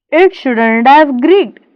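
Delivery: put-on slow German-accented "shouldn't have creaked"; German accent, dropped h, creaked as "greaked". Old shoemaker doubts the complaint, slow German accent. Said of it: "Then in a German tone".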